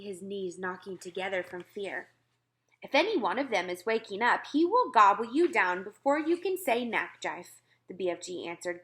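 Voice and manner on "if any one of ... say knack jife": a hint of a big kindly giant, a bit louder; lightly voiced friendly giant. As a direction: warn them cheerfully as the gentle giant. The BFG warns the soldiers.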